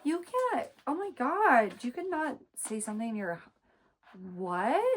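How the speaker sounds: high, pearl-clutching mock voice; mock her as shocked and prim; mock scandalized. Mocking the sister's horror, high and scandalized. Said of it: "your thought is".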